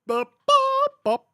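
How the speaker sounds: high loud bop bop; mock fight sounds. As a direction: shout the bops like sword clangs. Imitating movie fight sounds.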